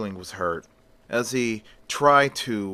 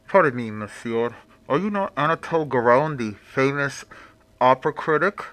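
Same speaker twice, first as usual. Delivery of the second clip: mysterious stranger voice; 3 semitones higher, 3 dB louder, faster than usual. Acted. Hidden towelled figure questions critic.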